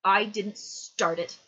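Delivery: loud, slow, drawn-out denial; loud protest. A narrator's reading. Boy defending himself to the dead man, loud protest. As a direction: protest every word, loudly.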